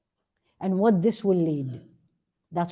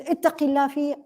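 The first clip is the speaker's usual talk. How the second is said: mock upset reproach; 6 semitones higher, much faster than usual. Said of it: "if somebody get upset, looks at you and says".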